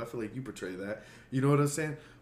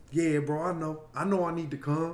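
higher, louder buddy voice; Tim impression; 7 semitones higher, 5 dB louder than usual. Host imitating his boxer friend putting off a podcast invite, raised voice. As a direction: imitate a pal, pitched up and loud. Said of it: "That's a good Tim impression".

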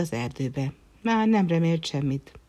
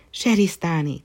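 joyful call; 2 semitones higher, 5 dB louder than usual. Acted. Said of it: "kiáltott fel a herceg".

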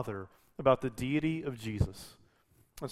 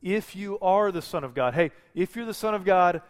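taunting Satan; 4 semitones higher, 5 dB louder than usual. Retold or imitated. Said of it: "What's he doing".

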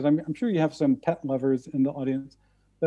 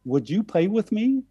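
little cat voice; 5 semitones higher than usual. Retold or imitated. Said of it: "in a little cat voice said".

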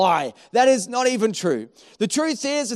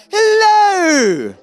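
higher, slow, sweet phone hello; sudden polite hello; 9 semitones higher, 9 dB louder than usual. Retold or imitated. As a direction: switch instantly to polite charm. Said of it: "you're so nice and polite".

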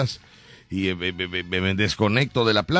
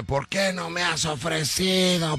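retold scolding; 5 semitones higher, slower than usual. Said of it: "Porque siempre me grita".

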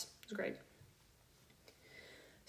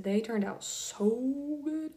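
slow, amazed and delighted; genuinely amazed at the photos; pleasantly surprised; 4 semitones higher, much slower than usual. Real, not acted. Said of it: "I was pretty surprised".

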